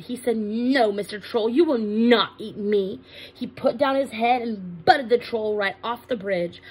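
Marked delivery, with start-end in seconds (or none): 0.4-3.0 understated defiance, weight on the negatives; unafraid, firm refusal. Acted. Big goat stands up to the troll, firm. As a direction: refuse firmly without raising pitch. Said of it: "was not afraid".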